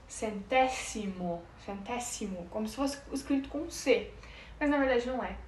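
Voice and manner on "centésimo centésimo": centésimo with a clear s and no z sound; Spanish pronunciation. Shown as a demonstration. Teacher explaining the Spanish s sound to viewers, Spanish pronunciation. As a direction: say centésimo as if spelled with c, Spanish style. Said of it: "a gente fala".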